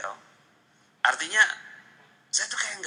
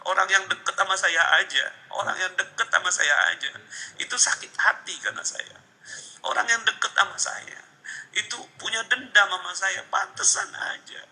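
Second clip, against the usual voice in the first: anguished, higher-pitched lament; pilu menyesal; 7 semitones higher, 3 dB louder than usual. Real, not acted. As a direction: pour out regret, raised and insistent. Anguished over hurting uncle. (meratap pilu dengan nada meninggi)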